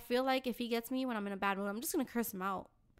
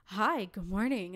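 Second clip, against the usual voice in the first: creepy old man imitation; 4 semitones lower, slower than usual. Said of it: "So he'll be like".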